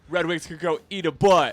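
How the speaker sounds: put-on old-timey voice. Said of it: "The old-timey voice".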